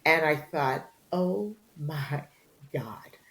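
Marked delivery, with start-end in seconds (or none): 1.1-3.2 breathy whispered shock, trailing to nothing; stunned, barely voiced oh my God; hushed disbelief. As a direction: let it fall away into a whisper. Silently shocked by mother's words.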